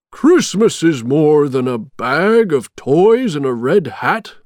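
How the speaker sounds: lightly voiced indignant Santa; a firm telling-off, mildly acted; stern Santa. A narrator's reading. Santa scolds Jack in the story.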